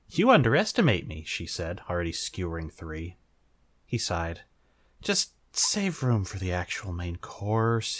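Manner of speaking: reading a fanfic aloud with lively character voices; story narration. A narrator's reading. Reader to audience, narrating a fanfic with light voices. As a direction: tell it like a storybook.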